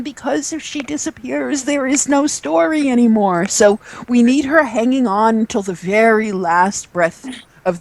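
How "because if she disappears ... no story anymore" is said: insistent reply. Retold or imitated. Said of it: "and I keep saying".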